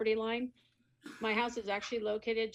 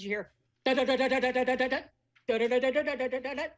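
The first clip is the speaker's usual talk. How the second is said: loud repeated da da da, higher; imitated beeping noise; 4 semitones higher, 6 dB louder, faster than usual. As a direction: mimic the clatter of pallet jacks. Imitating pallet jack noise.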